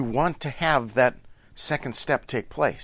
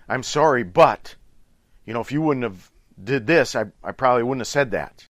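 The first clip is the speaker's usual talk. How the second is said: louder, defensive "I'm sorry, but"; defensive apology; 4 dB louder than usual. Retold or imitated. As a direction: justify yourself while apologizing. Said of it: "it might be something like".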